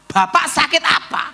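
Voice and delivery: high, loud question to the patient; asking the patient. Retold or imitated. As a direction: call out to the sick man. Preacher asks the sick man.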